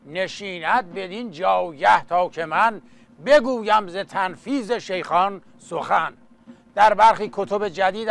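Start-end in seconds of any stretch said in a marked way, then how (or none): 0.1-6.1 rhythmic chanted Persian verse; epic teahouse storyteller. Acted. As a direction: recite like a coffeehouse naghal. Naghali epic verse recital.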